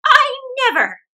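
high, loud startled exclaim; astonished. Acted. Old woman sees silver, astonished. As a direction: gasp out surprise. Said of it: "she said at last".

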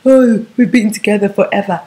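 whiny imitation of a clinging girlfriend; lightly put-on woeful voice; mock lament. Mocks woman clinging to relationship.

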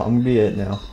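soft unvoiced whisper. Real, not acted. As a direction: breathe it out in a whisper. Repeated as whisper.

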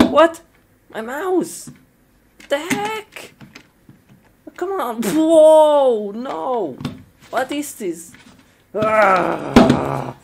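high, startled cries; high-pitched alarmed confusion; panicked surprise. Real, not acted. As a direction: yelp at the broken mouse. Computer glitching, panicked reactions.

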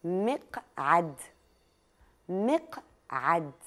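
each sound drawn out very slowly for listening; slow clear dictation. Shown as a demonstration. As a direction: spell it out slowly so children hear every letter. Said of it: "اسمعوا جيداً".

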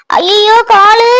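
slow, high put-on wail; fake pain cry. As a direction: moan it long, faking a sore leg. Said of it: "இது உண்மையான கால்வலி மாதிரி தெரியலையே".

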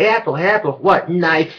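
high, loud squeaky cartoon voice; Annoying Orange. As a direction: shriek it like a cartoon fruit. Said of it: "Really annoying orange".

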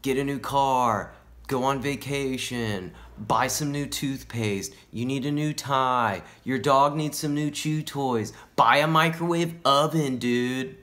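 slow, drawn-out sales commands; commanding TV. Acted. TV ordering a viewer to buy things, commanding. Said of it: "and it's saying".

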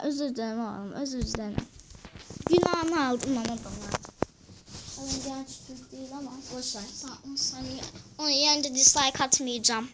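talking while chewing gum; words round a piece of gum. Real, not acted. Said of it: "Ağzımda sakız var bu arada".

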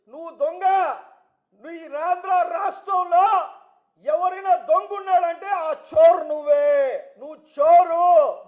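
slow, loud, accusing shout; slow furious accusation at the rival MLA; angry accusation. Real, not acted. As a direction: hammer home that he is the thief.

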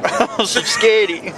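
high, slow mocking hick voice; hammed-up country boy begging. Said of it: "'Cause he was real country".

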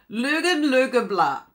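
loud, playful go at a German word; exaggerated German-style pronunciation; mock German. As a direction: have a jokey stab at German. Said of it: "that's the German way of saying".

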